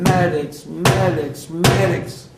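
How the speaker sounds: shouted high and loud, calling across the camp; screaming for medics. Retold or imitated. Soldier in the camp shouting for medics, loud urgent scream. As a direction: yell for the medics at full voice. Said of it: "I started screaming".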